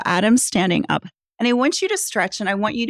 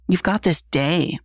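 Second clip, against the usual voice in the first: affirming; slower than usual. Shown as a demonstration.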